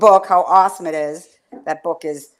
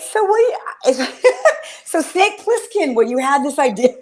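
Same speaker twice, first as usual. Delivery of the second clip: mock interview; 5 semitones higher than usual. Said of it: "I'm gonna be like".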